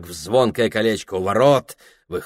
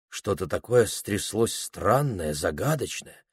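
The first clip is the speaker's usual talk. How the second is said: plain reading voice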